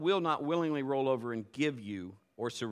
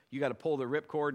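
ordinary talk, nothing marked

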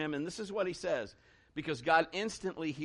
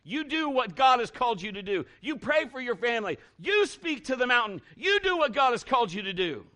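higher, louder preacher's drive; rising sermon cadence, louder; preaching at full force; 6 semitones higher, 5 dB louder than usual. Real, not acted. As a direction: push each command out like a charge. Preaching build-up.

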